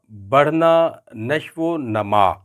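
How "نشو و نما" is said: نشو و نما, with a on the nun of نما, said slowly; نما of نشو و نما said with short a, not numa; correct pronunciation. Shown as a demonstration. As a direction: say نشو و نما as nashw-o-nama. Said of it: "نما نہیں ہے".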